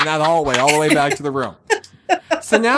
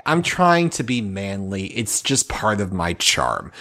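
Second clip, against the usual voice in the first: slow, deliberate comic aside, sinking lower; mock-stoic composure; 5 semitones lower, slower than usual. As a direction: hold yourself together, measured and dropping away. Comic aside on holding back tears.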